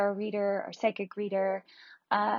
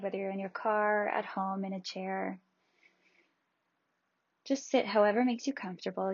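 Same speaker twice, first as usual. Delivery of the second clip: guided meditation. Acted. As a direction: ease them gently into calm.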